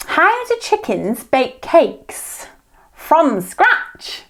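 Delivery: slow, shaky attempt at Australian; lightly put-on Australian, deliberate; Australian accent. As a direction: tell the joke as an Aussie. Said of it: "I want you to do Australian".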